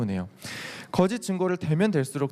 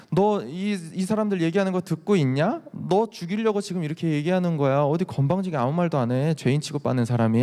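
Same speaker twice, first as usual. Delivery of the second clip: mocking scorn; 3 semitones higher than usual. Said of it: "되게 비아냥거리면서 얘기하는 거예요".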